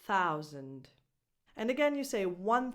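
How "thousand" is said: Thousand with a z and schwa; teacher model. Shown as a demonstration. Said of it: "is a schwa".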